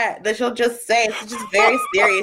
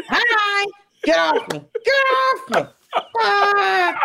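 high giggly squeals through laughter; giggling mock fight; 11 semitones higher, slower than usual. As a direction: laugh and squeal while play-wrestling. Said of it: "we're giggling the whole time".

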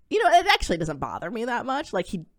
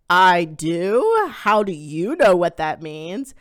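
taken aback; 7 dB louder, much slower than usual. Retold or imitated. Quoting her reply to son.

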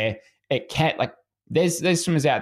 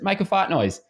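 coach's repeat; 8 semitones higher than usual. Retold or imitated. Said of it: "He goes".

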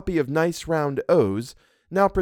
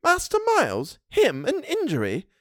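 much higher, indignant housekeeper; flaring up; 13 semitones higher than usual. A narrator's reading. Housekeeper defends Miles, indignant. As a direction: flame up in his defence. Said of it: "she suddenly flamed up".

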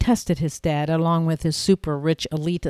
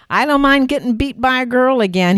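teasing, still laughing; 8 semitones higher, 8 dB louder, faster than usual. Acted.

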